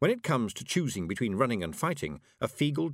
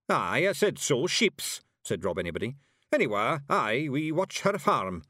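high Scots, puffed up; boasting of their hag; proud Feegle; 6 semitones higher, 4 dB louder than usual. A narrator's reading. Rob Anybody proudly tells Miss Level in high Scots. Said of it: "he added proudly".

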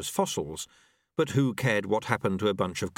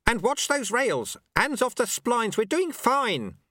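high, urgent yelled orders; yelling; 12 semitones higher, slower than usual. Acted. Sweeper running past monks, yelling. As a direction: call down the rows, drawing out the end. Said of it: "he yelled, running down the rows".

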